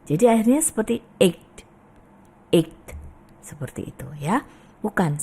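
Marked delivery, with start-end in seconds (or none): 1.2-2.8 EIGHT with an audible g, aykt; forced g. Shown as a demonstration. Teacher shows students the wrong way, mispronounced. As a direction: push the g out in EIGHT. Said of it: "memaksakan G-nya kedengeran".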